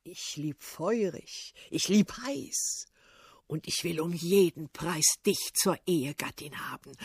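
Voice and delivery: a doddering tsar pleading for love; lightly voiced lovesick old ruler; old tsar wooing. Old tsar courting princess.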